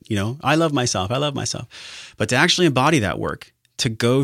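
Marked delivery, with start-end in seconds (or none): 1.1-2.1 softer, slower, sincere self-affirmation; tender and soft. Shown as a demonstration. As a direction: say it gently, meaning it. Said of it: "self-love".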